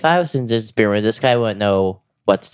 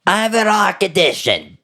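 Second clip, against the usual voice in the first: pained heart patient voice; mock victim line; 10 semitones higher than usual. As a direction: whine it like the victim actor.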